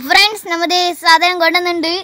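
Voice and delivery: loud announcing. Real, not acted. Announcing to viewers.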